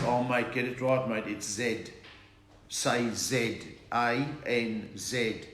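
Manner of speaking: low Aussie voice correcting someone; insistent Australian accent, stressing the letter name. Acted. Australian guy correcting him at the bank, Aussie accent. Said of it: "and they talk funny".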